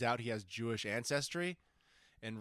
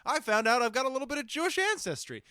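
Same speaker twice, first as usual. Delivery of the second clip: higher imagined self; 8 semitones higher, 3 dB louder than usual. Pretend. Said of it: "one day I was like".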